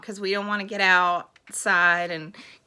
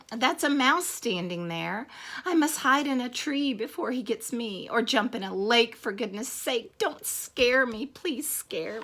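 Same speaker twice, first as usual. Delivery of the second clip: loud alarmed cries easing into pleading; mock panic; 3 semitones higher, 3 dB louder than usual. Elephant terrified by a mouse, hammed-up panic. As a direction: start louder and higher, end begging.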